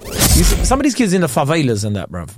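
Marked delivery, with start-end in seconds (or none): 1.3-1.8 Portuguese-accented word. Real, not acted. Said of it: "allow going into another accent for one word".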